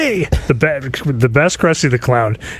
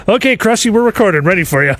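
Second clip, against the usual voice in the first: studio crew calling; 8 semitones higher than usual. Retold or imitated. Crew calls Krusty into the booth, high eager call. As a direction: call out that you're ready to record. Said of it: "they go".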